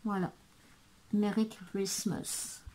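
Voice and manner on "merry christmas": slow, softer English with French accent. Real, not acted. Vlogger showing off her English self-mockingly, French accent. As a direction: say it slowly, softly, with a French accent. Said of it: "Mon superbe anglais, mon superbe accent".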